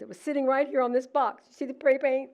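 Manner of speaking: retold upset explaining. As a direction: make him see it was right here.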